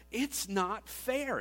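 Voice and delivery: put-on high, slow childish whine; drawn-out playground complaint; whiny kid cry. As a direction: wail it like a sulking kid. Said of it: "Have you ever cried that before?".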